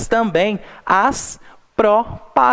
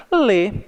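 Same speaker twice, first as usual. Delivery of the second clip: Lê isolated as the strong syllable; stressed syllable alone; 3 semitones higher than usual. Shown as a demonstration. Teacher answers which syllable is strongest, stressed and isolated. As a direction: give Lê on its own, with weight. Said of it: "qual foi a sílaba que nós colocamos uma intensidade".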